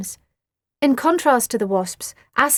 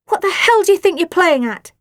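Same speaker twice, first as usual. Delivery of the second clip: higher, louder angry snap; hissed fury kept in check; snapped; 8 semitones higher, 8 dB louder than usual. A narrator's reading. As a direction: Nellie scolding her sister indoors. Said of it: "snapped Nellie".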